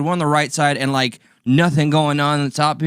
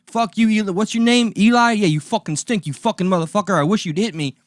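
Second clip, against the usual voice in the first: put-on furious drunk yell; 7 semitones higher than usual. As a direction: rant at the clerk like a raging customer. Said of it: "he's like".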